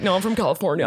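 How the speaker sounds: mock California surfer accent; choked surfer accent. Retelling how he hid being East Coast, choked surfer accent. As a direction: imitate someone overdoing a California accent. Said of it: "choked on his own accent".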